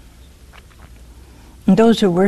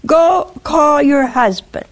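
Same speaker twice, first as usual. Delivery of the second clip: slow, raised call to go fetch him; a firm order, slowed down; firm command; 5 semitones higher, slower than usual. Retold or imitated. Jesus telling the woman, a firm slow command. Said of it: "And he says".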